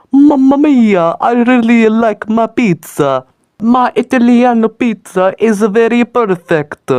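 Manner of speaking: put-on high, slow hammy Italian accent. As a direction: overdo a pizza-chef Italian accent. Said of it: "I'm the best at Italian accent".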